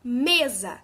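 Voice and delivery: Mesa said loudly, first syllable punched; emphatic teaching demo of Mesa, stressed on ME. Shown as a demonstration. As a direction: hit the ME of Mesa and let za drop. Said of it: "Qual a sílaba mais forte?".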